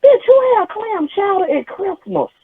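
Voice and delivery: high, slow, cracking squeal; high mock shriek. Sister-in-law squeals at the Christmas dish, high and slow. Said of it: "She said".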